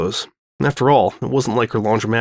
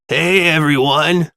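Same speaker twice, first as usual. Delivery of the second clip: vibrating funny voice; 4 semitones higher, 3 dB louder, slower than usual. Acted. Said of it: "vibrations made his voice sound funny".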